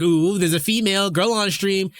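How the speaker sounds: high mock-thrilled chat voice; excited chat squeal. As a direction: tease like an eager chatter.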